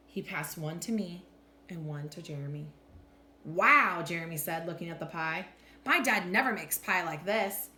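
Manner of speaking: animated picture-book narration with deliberate pauses; expressive, measured storytime voice; story read-aloud. A narrator's reading. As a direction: read to children, lifting and dropping the pitch for drama.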